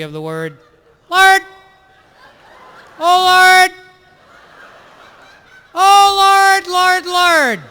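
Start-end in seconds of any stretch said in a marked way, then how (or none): 1.1-1.4 high, loud, clipped yelp of Lord; pained priestly Lord. Shown as a demonstration. Comedian demoing the priest's clipped "Lord!", high and loud. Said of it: "clipped, caught my nuts in a car door, borderline Kermit the Frog". 3.0-7.6 high, loud strangled "Lord" cries; pained priestly Lord. Shown as a demonstration. Priest parody crying out "Lord", high and loud. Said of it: "clipped, caught my nuts in a car door".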